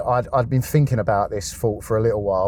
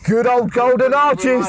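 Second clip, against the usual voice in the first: mock fond; 12 semitones higher, 5 dB louder, slower than usual. Fond ironic praise of McDonald's.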